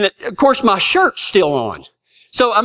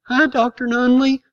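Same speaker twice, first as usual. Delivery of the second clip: Hi pitched higher, bright and eager; a kid's eager hello, pitched up; 4 semitones higher than usual. Shown as a demonstration. Boy greeting the town doctor, a higher eager hi. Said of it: "I mean".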